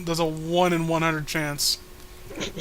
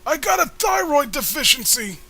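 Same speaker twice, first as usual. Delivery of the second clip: put-on squeaky girl voice; 4 semitones lower than usual. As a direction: keep up the chirpy girl act. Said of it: "what happened to your voice?".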